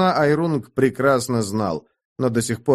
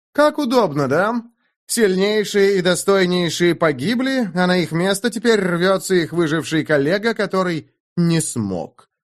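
higher, pressing, scornful; raised voice; 6 semitones higher than usual. A narrator's reading. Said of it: "продолжил давить Айрунг, повысив голос".

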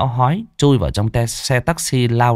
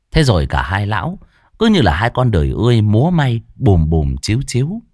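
usual speaking voice

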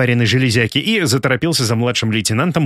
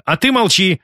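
higher-pitched mild scolding; snapping at a dog; 8 semitones higher than usual. A narrator's reading. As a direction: hush a growling dog without really yelling. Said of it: "прикрикнула она на вновь зарычавшую собаку". (прикрикнуть повыше голосом на собаку)

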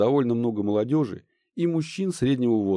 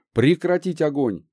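command shout; 5 semitones higher, 4 dB louder than usual. Acted. Commander orders ceasefire.

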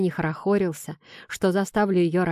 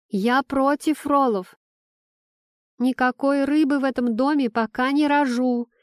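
higher and insistent, called out; shouted protest; 6 semitones higher than usual. Acted. Pregnant wife shouts from the toilet against fish, raised voice. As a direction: yell it through the bathroom door. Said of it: "кричит Элька уже из сортира".

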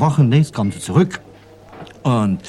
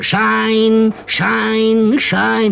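high, loud drawn-out cries of "Schein"; street call; 13 semitones higher, 5 dB louder, much slower than usual. Retold or imitated. Shoeshine boy hawking in the street, high loud calls. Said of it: "er ruft immer".

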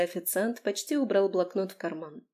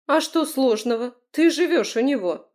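raised, louder indignant outburst; higher, louder, outraged; 6 semitones higher, 6 dB louder than usual. A narrator's reading. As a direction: throw the question back at her in outrage. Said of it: "возмутилась Лера".

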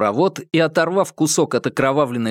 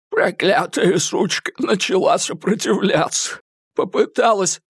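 high thug voice, sneering; a cornered killer's show of defiance; high-pitched scornful confession; Eddie, defiant; 6 semitones higher than usual. A narrator's reading.

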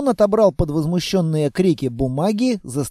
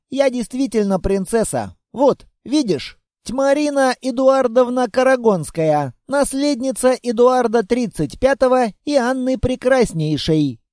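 put-on higher, a little proud childish voice; girl announcing; 5 semitones higher than usual. The girl shows the monster she is a princess, proud. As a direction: proclaim your title like a small princess. Girl reads her title.

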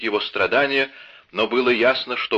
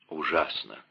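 тихо и подавленно; выдохни слово почти шёпотом; 4 semitones lower, 6 dB quieter than usual. Acted. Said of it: "шептал Атос". (тихо, подавленно «Ужасно!»)

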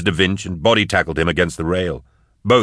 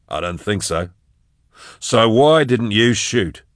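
higher, sly taunting; lightly raised taunt; mocking rogue, higher; 5 semitones higher than usual. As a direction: needle the gunman. Da Vinci taunts Nail.

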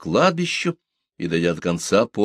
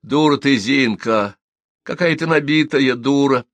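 raised, higher scolding voice; loud and angry; 6 semitones higher, 4 dB louder than usual. A narrator's reading. Young woman berates her friend behind a door, angry. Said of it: "громкий и сердитый голос Наденьки".

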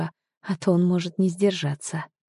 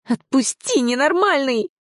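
much higher panicked squeal; 9 semitones higher than usual. A narrator's reading. Heroine squealing as he grabs her arm. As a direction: shriek to be let go. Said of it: "взвизгнула я".

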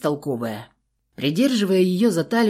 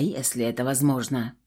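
usual speaking voice

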